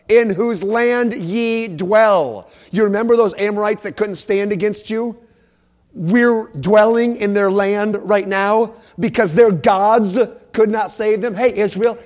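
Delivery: forceful preaching. Acted. Preacher voicing Joshua challenging Israel, forceful preaching. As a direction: declaim it as a challenge to the people.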